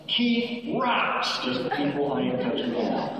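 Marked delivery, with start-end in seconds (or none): 0.1-1.4 high-pitched mock cheer without full volume; raised, cheering model shout; demonstrated shout. Shown as a demonstration. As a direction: show them the chant to shout. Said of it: "you will shout at the top of your lungs".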